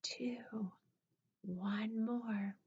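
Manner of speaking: whispered count, unvoiced. Real, not acted. Teacher whispering the breath count to the class.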